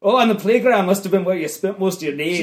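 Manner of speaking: put-on Scottish accent. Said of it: "say it in a Scottish accent".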